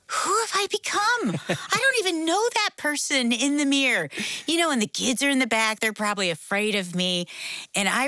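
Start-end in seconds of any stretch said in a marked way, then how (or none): 0.1-4.1 high-pitched dismayed disbelief; appalled self-realization. Retold or imitated. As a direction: retell being shocked at yourself, pitch leaping up. Retold shock at seeing herself.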